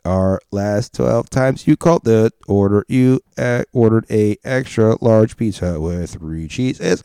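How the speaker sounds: listing the order like a machine; robot voice. Pretend. Google robot reads the caller's order history in robot voice. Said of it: "I'll do robot voice for Google".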